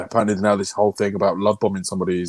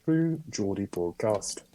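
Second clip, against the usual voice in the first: put-on Geordie accent; slower than usual. Co-host trying out the podcast's name, shaky Geordie accent. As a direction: have a tentative go at sounding Geordie. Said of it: "I don't do a Geordie accent".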